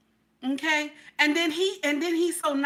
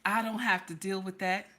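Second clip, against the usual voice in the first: smug murmur; 7 semitones lower, 7 dB quieter than usual. Real, not acted. Smug aside after throat clear.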